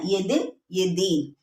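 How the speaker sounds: दिन with a short i, then दीन with a long drawn ii, slowly; short vs long vowel. Shown as a demonstration. Teacher to students, slowly contrasting दिन and दीन. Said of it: "इनके उच्चारण में भी अंतर होता है".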